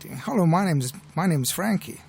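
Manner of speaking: boy's American accent, lightly imitated. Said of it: "he had a distinct American accent".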